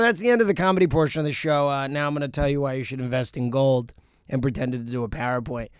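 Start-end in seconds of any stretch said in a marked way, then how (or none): 0.0-3.9 mock presentation. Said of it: "I said".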